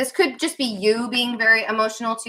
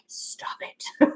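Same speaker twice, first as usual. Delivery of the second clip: mom's silent stop it; 9 dB quieter than usual. Retold or imitated. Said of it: "my mom kept looking at me like".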